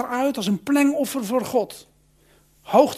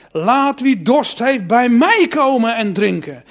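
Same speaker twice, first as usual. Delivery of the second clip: calling out; 7 dB louder, slower than usual. Acted. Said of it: "Hij riep".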